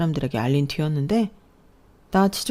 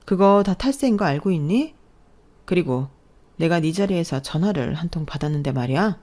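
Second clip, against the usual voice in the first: plain reading voice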